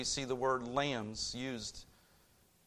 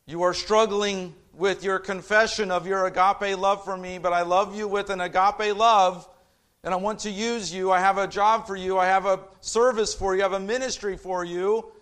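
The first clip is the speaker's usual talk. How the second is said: earnest plea; 5 semitones higher, 8 dB louder than usual. Acted. Jesus voiced pleading with Peter.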